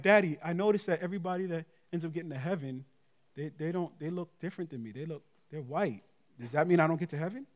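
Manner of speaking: softly voiced, hesitant worried child; worried young daughter. Daughter asks her dad if she can reach heaven, mildly worried. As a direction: lightly imitate a small girl's quiet worry. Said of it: "get worried".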